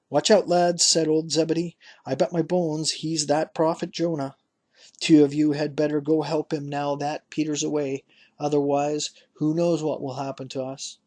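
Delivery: a hint of a crafty old father warning his sons; old Zebedee. Narrator voices old Zebedee.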